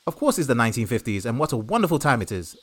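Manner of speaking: 1950s radio presenter. Acted. Reporter Tony cheerfully reports grey skies to Ken, fifties radio voice. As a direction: gush like a fifties wireless host. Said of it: "Like you're a nineteen fifties radio presenter?".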